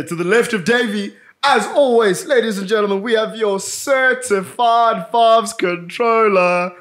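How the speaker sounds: slow, drawn-out hype introduction; announcer intro. Acted. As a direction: build it up like a ring announcer. Introduces the co-host.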